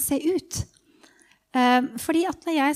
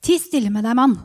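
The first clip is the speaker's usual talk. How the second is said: louder, curt hushing; irritated bystander telling someone off; 7 dB louder than usual. Acted. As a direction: shush someone in annoyance. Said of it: "fra en irritert stemme ved siden av".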